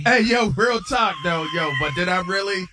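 hammed-up bro slang. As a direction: stretch out "Hey" like a swaggering friend. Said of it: "Patty's response was".

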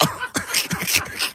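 soft breathy laugh; quiet laugh. Real, not acted. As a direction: chuckle under your breath. Laughing at the prank.

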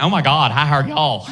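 put-on lilting Southern belle accent; Georgia peach lilt. Comic showing off a woman's Southern accent, Georgia lilt. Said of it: "it's got that Georgia peach lilt to it".

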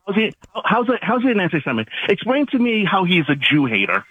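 worked-up, high-pitched demand. Real, not acted. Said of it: "you're so emotional".

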